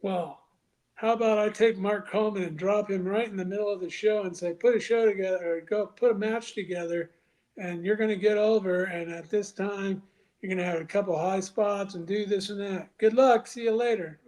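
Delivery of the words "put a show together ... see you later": mock boss orders. Mock orders to Mark Coleman.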